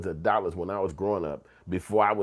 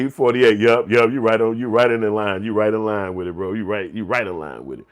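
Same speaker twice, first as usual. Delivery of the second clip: much louder hype to the chatter; 9 dB louder than usual. Real, not acted. Host cheering a chatter's guess, loud and excited. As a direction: shout him on.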